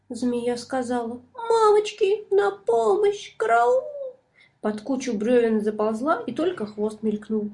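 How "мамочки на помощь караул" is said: high, loud frantic cry for help; panicked squeal. A narrator's reading. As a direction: shriek for help while fleeing. Snake flees in panic.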